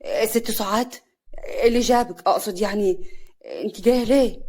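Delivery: flustered, halting questions; shocked. Acted. Man startled by her visit in the field, shocked. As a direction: stumble through startled questions. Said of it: "خالد بصدمة".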